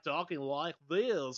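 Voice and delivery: slow, lightly put-on Southern drawl; a touch of a bad Southern accent. Mocking an actor's Southern accent, slow and light. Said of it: "worst Southern accent".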